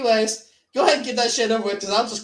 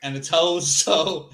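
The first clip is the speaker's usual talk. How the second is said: lowered movie voice; 3 semitones lower than usual. Retold or imitated. Quoting a film line in a low slow voice. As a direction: drop into a slow, low character voice.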